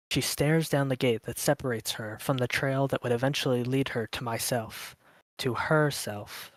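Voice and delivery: measured, dreamy storytelling; story narration. A narrator's reading. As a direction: read it like a mysterious prologue. Reads the prologue narration.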